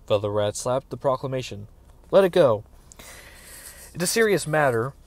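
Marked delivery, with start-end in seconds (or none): 2.1-4.9 forceful warning. A narrator's reading. Castellan warns Geralt.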